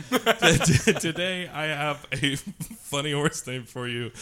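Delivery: can barely get the words out for laughing. Real, not acted. Laughing while announcing funny name.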